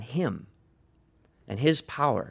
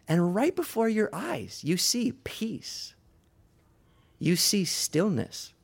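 slow, high, softened preaching; hushed wonder; 7 semitones higher, slower than usual. A narrator's reading. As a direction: ease down into slow, gentle awe. Peace arrives after the madman's charge.

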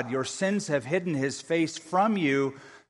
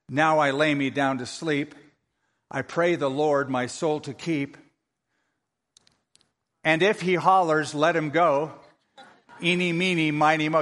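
put-on child's bedtime prayer. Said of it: "you can guess what he prayed".

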